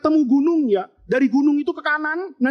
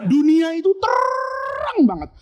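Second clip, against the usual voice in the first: laughing; 7 semitones higher, slower than usual. Shown as a demonstration. Repeated with laugh.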